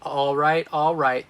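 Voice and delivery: lightly acted wedding hype man; hyping the crowd. Wedding emcee hypes the crowd.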